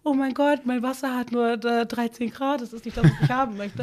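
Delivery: high, nagging patient whine; whiny complaining. Retold or imitated. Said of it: "wir nörgeln hier schon".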